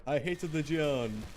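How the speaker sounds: slow mock Borat accent; lightly hammed-up Borat. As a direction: drag it out in a fake Borat accent. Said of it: "what accent that was supposed to be".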